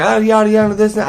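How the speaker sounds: high, dismissive yada yada voice; mocking mom. Parodying the mom's excuses during the argument, high mock. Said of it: "She was like".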